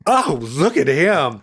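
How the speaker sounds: slow, lecherous campy drawl; savoring aged-queen impression; old queen. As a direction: imitate an elderly dandy ogling, words stretched out. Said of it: "eighty-year-old queen".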